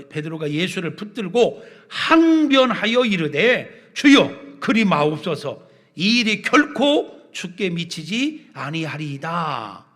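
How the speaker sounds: loud, stretched proclamation of Peter's protest; forceful scripture reading. A narrator's reading. Preacher reading Peter's objection to Jesus to the congregation, forceful proclamation. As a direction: declaim the verse with rising force.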